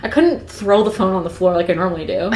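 steady storytelling read; reading Twilight aloud to a co-host; novel read aloud. Acted. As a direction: read it like an audiobook chapter.

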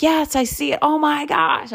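high, thrilled exclamation; suddenly catching sight of something wonderful; amazed. Retold or imitated. Husband spots the whale out at sea, high amazed exclaim.

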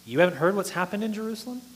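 mildly incredulous, quick retort; lightly mock a shocked, sarcastic question; sarcastic disbelief. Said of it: "their answer is kind of sarcastic".

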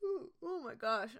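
mid-yawn words. Real, not acted. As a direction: say it through a yawn. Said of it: "I keep yawning".

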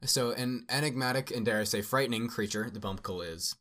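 measured storybook narration; story narration. A narrator's reading. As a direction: read a fantasy explorer's account aloud. Reads creature entry aloud.

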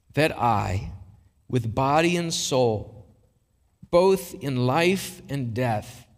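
measured catechism recitation, long pauses between phrases; slow, deliberate reading. Real, not acted. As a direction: read it slowly so listeners can absorb it. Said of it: "I'm gonna read this slowly".

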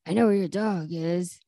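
lightly voiced kidnapper call; a hint of a gruff ransom caller, unhurried; Joey's gravelly voice. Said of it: "really low, gravelly voice going on".

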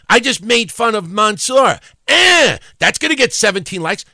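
high, loud mocking gloat; mock gloating goof. Host mimics goofs posting, mock gloating. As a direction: crow it like a pleased-with-himself poster.

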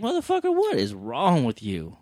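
a sudden high, exasperated outburst; outraged quote. Retold or imitated. Mocking the parent who let the friend stay, in outrage. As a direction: throw it out like you can't believe it.

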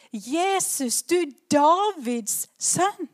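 a loud call, rising at the end. Retold or imitated. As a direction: call out to Jesus across the crowd. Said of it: "Men han roper". (roper høyt med stigende tone)

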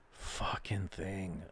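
slow whispered curse. Real, not acted.

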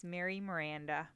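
"Mary Miranda" said the American English way; "Mary Miranda" in plain American pronunciation; Americanized name. Shown as a demonstration. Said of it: "which sounds very Americanized".

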